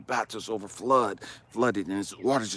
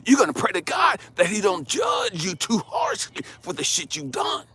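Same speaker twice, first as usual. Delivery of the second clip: loud, high preacher-like admonition; raised voice, punching the key words; stern rebuke; 5 semitones higher, 5 dB louder than usual. Acted. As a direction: drive each warning home forcefully. Angry admonition opening the story.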